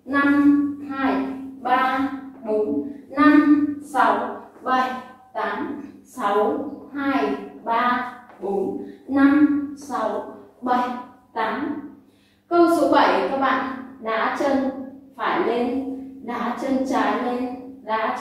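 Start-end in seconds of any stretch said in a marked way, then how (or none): 0.0-11.8 steady beat counting; counting workout reps. Shown as a demonstration. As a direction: count eight beats twice. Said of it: "Mình sẽ kết hợp câu năm".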